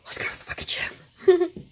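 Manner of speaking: breathless, eager whisper to herself; excited whisper. Retold or imitated. Vlogger psyching herself up for the gym, in an eager whisper. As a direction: hush it like a thrilling secret.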